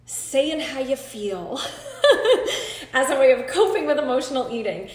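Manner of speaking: laughing through the words; a nervous laugh breaking in; real nervous laughter. Real, not acted. Nervous laugh mid-sentence.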